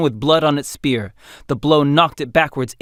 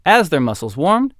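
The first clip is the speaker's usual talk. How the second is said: usual speaking voice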